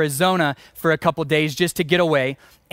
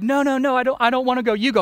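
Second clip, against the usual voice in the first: put-on mild kid voice, higher, pleading; scared little kid; 6 semitones higher, faster than usual. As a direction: lightly play the frightened boy refusing. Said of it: "he's looking at me like".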